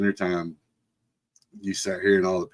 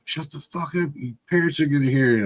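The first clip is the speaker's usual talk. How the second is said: higher, urgent mock reprimand; hiss-free, hurried warning as the uncle; imitated uncle's scolding hush; 5 semitones higher, faster than usual. Uncle hushing kids, retold.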